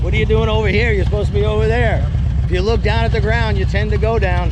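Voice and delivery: loud, high calls across the range; yelling to rider. Real, not acted. Instructor yelling to a student on a motorcycle, loud and high. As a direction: shout so the distant rider hears. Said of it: "they think I'm yelling at the riders".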